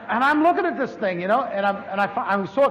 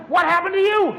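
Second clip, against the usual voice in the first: high startled question, a bit louder; surprised; 8 semitones higher, 4 dB louder than usual. Retold or imitated. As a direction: blurt it out in disbelief. Wife suddenly up and well.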